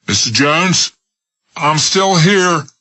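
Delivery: put-on high, slow quavering old voice; an old man calling down in fear; frightened old man. Old man answers Smith from the window, frightened.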